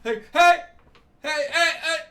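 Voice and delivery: very high, loud mock-frantic yelling; hammed-up frantic squawk; imagined panicking teammate. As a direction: squeal urgently like a teammate left behind. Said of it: "I just picture Todd in the background".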